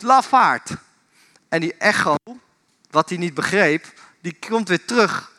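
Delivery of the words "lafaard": raised, higher mock shout; frustrated shout. Frustrated boy calls at the unknown voice, frustrated shout. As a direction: call it out in frustration, pitched up. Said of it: "wordt hij een beetje gefrustreerd".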